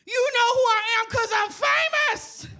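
very high, loud, hammed-up yell; drunken boasting shout. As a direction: screech it like a self-important drunk. Acted drunken outburst at food counter.

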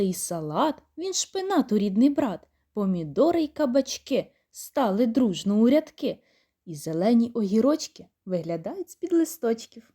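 put-on bouncy rhymed reading for children; children's rhyme told cheerfully; poem recital. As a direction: read the garden verse with a playful lilt.

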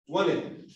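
"wanted" with the T dropped after N; American WANTED. Shown as a demonstration. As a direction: say "wanted" as "wanet", T swallowed. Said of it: "¿Cómo pronunciaste eso?". ("wanted" sin la T, a la americana)

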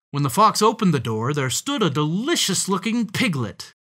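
quick, lilting storybook reading; animated story narration. A narrator's reading. Revealing the piglet to young listeners, animated narration. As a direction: build up to who is at the door.

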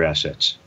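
"assets" with the first syllable stressed. Real, not acted. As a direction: lean on the AS in "assets", not the second syllable. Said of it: "the emphasis on the first syllable".

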